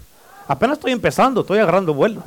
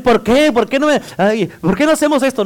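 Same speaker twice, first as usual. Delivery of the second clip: imitated protesting child; 5 semitones higher, 3 dB louder than usual.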